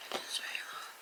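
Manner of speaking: hushed deadpan whisper; whispered verdict. Shown as a demonstration. Whispering her book review to viewers, dry deadpan. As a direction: breathe it out like a secret. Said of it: "That's my official feedback".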